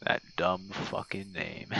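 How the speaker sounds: whispered fondly. Real, not acted. Fond memory of the friend.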